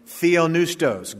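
theopneustos said slowly as thee-o-NOO-stos, no p sound; Greek word said slowly. Shown as a demonstration. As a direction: spell out theopneustos carefully for the congregation. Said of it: "The Greek word".

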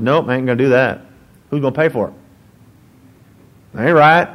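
put-on mild southern accent, refusing the job. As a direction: play a grumbling southern good old boy. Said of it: "he had a southern accent? ... sounds better that way".

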